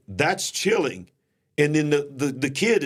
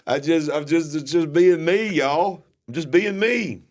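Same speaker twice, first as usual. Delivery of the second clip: playful protest; 5 semitones higher, 4 dB louder than usual. Real, not acted. Defending himself playfully.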